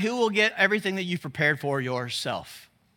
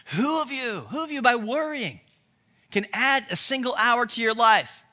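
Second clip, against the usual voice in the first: loving tone; 4 semitones higher than usual. Retold or imitated. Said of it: "he says it in a loving tone".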